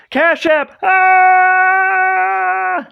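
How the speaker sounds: high squealing mock Pee-wee shout; Pee-wee word of the day. Streamer yelling the word of the day to chat, in a high squeal. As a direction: shriek the word of the day like a kids' show host. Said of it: "like Pee-wee's Playhouse with the word of the day".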